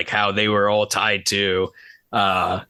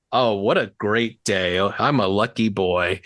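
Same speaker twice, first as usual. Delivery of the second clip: imitated monotone. Quoting how the episode ends, mock monotone. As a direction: drag it out as a deadpan imitation. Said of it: "in, like, the most monotone voice ever".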